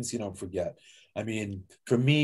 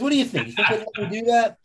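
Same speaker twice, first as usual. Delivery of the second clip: imitating Tommy, much higher and louder, hopeful; eager old man; 10 semitones higher, 5 dB louder, faster than usual. Guest imitating Tommy asking about burial under the mound, eager. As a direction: ask it like a kid asking permission.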